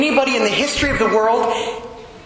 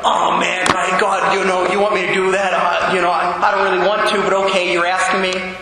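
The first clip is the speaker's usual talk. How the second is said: grudging complaint; 5 semitones lower than usual. Pretend. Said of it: "not like".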